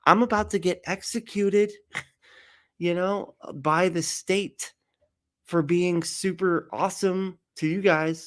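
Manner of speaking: high, whiny mock Jesus complaining; hammed-up aggrieved Jesus. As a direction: complain like a put-upon martyr bro. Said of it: "He's like".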